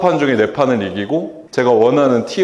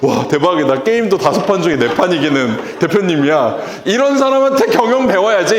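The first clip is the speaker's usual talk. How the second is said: high, excited fan reaction; imagined excited fan; 4 semitones higher than usual. Retold or imitated. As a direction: gush like an impressed follower. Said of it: "막".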